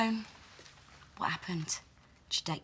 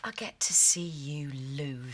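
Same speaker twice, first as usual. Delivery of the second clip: gloating whisper; 3 semitones lower, slower than usual. Acted. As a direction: whisper it, savouring it. Hushed threat.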